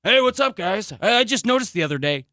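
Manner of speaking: upbeat comic greeting; mock stand-up opener. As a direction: play the eager comedian. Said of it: "You can".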